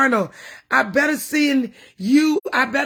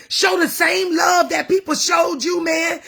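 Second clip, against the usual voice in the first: crying plea; 5 semitones higher than usual. Real, not acted. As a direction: plead through tears. Emotional plea to church people.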